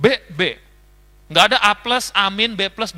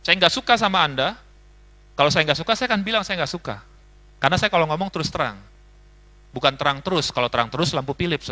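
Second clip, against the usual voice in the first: blunt and frank; 3 semitones lower than usual. Retold or imitated. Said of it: "kayak tadi saya bilang".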